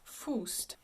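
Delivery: oo lips on Faust; French pronunciation of Faust. Shown as a demonstration. Teacher repeats the title for students, French pronunciation. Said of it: "oo lips pronunciation".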